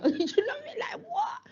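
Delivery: breaking into high laughter mid-question; can't get the words out for laughing. Real, not acted. Telling youth workers a funny visit, laughing hard. Laughing at his own story.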